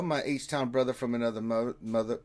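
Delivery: fast, stumbling run at the phrase; rushed tongue twister. Shown as a demonstration. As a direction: rattle it off and trip on it. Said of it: "I had to say that five times fast".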